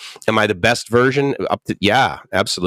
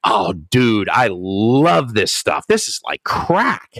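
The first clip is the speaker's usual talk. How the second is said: mock naive enthusiast; much slower than usual. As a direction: gush innocently about the food. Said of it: "says something like".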